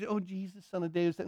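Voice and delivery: very soft, quick murmur; feeble, half-hearted call. Shown as a demonstration. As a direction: demonstrate crying out with no intensity. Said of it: "Don't, don't do".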